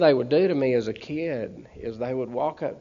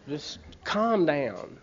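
soothing; 3 dB quieter, much slower than usual. Retold or imitated. Friend soothing him.

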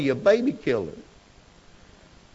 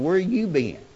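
raised call after someone leaving; mother hollering; 5 semitones higher than usual. Retold or imitated. Mother calls after her son walking off, a raised holler. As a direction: shout after him as he walks away. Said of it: "she's hollering".

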